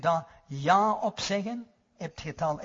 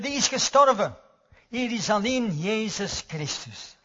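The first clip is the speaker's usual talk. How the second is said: retold proud cry; 3 dB louder than usual. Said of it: "riep Luther".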